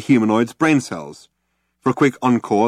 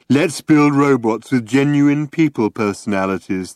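high, louder mocking sales voice; mock marketing cheer; 5 semitones higher, 4 dB louder than usual. Quoting the marketers.

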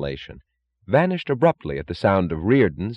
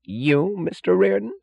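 incredulous, very high question; Holloway; 13 semitones higher, slower than usual. A narrator's reading. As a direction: ask in high-pitched disbelief. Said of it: "said Holloway incredulously".

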